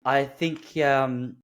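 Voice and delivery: haltingly, drawn out at the start; hesitant refusal. Retold or imitated. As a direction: imitate an awkward, polite refusal. Awkward guard refusing the land claim.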